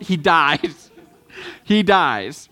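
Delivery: words broken by a laugh. Real, not acted. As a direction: giggle through the punchline. Joke about goat and T-Rex.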